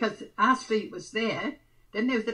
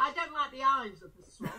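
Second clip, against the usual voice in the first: laughing; 3 semitones higher than usual. Real, not acted. Laughing at being teased.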